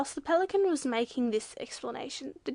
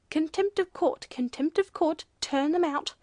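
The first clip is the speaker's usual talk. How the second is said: loud, raised-pitch chant of outrage; echoing outcry; 4 semitones higher, 6 dB louder than usual. A narrator's reading. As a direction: take up the cry like an indignant crowd. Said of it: "everyone echoed".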